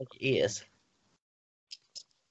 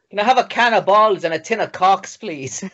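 louder, higher silly order; loud mock order; 6 semitones higher, 6 dB louder than usual. Joking with Callum, loud mock shop order. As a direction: bark it like a mock shopkeeper order.

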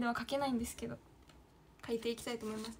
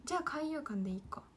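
whisper; 2 semitones higher, 6 dB quieter than usual. Real, not acted. Muttering to herself.

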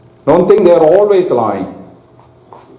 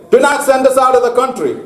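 higher, quick retold plea; a mild acted begging, pitched up and hurried; imploring; 5 semitones higher, faster than usual. Preacher retelling the demons begging Jesus, mildly imploring. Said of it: "implored and begged him".

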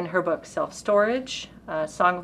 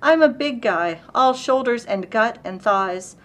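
lightly dramatic narrative recitation; poetry reading; 3 semitones higher, 3 dB louder than usual. Acted. Reading Alexie's poem about a parking dispute, storytelling recitation. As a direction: tell the poem as an unfolding incident.

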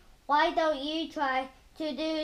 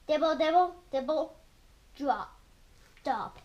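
rain pattering. Acted. Reader making Mister Brown's rain sound, playful pattering. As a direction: patter like rain, then let drops fall. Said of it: "like the rain".

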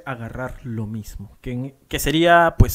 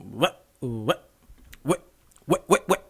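forceful scratch; 2 semitones lower, slower than usual. Shown as a demonstration. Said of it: "eso tiene que ser con fuerza".

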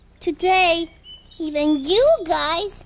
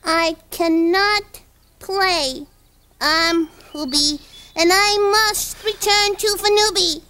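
pretend space person; 2 semitones lower than usual. Kiki refusing to play with friends, pretend space-person voice. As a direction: lightly play a visitor from another planet, word by word.

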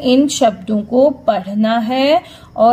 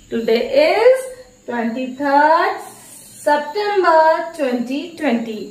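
slow dictation; 3 semitones higher, much slower than usual. Shown as a demonstration. Teacher dictating date slowly.

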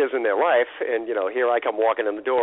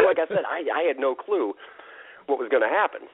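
ordinary delivery

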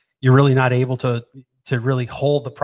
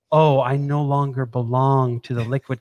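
playful cannabinoid voice. Acted. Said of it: "They're like".

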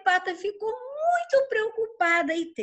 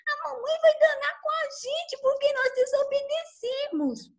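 scared ducklings; 9 semitones higher than usual. Acted. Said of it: "Ficaram até com medo".

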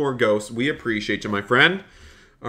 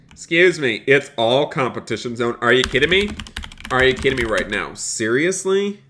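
louder, exasperated protest; hammed-up outrage; indignant outrage; 4 dB louder than usual. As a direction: act fed up with the rival truck. Rival parks in his zone.

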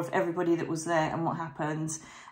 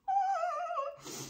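high giggle; 6 dB quieter than usual. Real, not acted. Giggles about book editing.

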